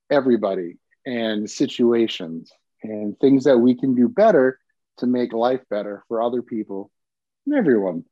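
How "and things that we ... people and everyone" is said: short of breath, sick; catching breath between words. Real, not acted. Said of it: "Sorry, I'm a little out of breath".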